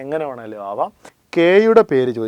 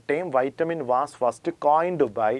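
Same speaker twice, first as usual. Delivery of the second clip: slow dictation; 4 dB quieter, much slower than usual. Shown as a demonstration. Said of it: "vitamin എന്ന പേര് ആദ്യമായി ഉപയോഗിച്ചത്".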